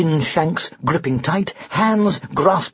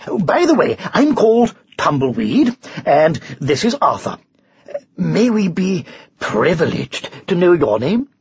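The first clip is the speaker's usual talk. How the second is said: lively, polite knight's introduction; courteous knight; 2 semitones higher than usual. Acted. Knight asks to know the unicorn's name, eagerly courteous.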